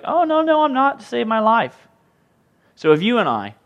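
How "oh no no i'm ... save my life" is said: mock denial. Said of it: "They're like".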